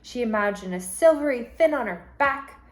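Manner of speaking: storybook read-aloud, gentle and lively; reading to children. Acted. Teacher reads a picture book to her class, lively.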